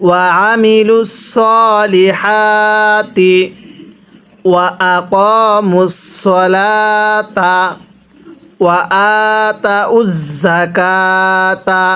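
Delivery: slow, drawn-out tajweed chanting; measured Quran recitation for students. Shown as a demonstration. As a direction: recite each word slowly with long vowels. Teacher recites the whole verse.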